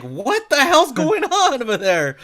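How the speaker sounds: high, loud, laughing disbelief; incredulous laughing. Retold or imitated. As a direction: ask it in amused shock. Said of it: "And you're like".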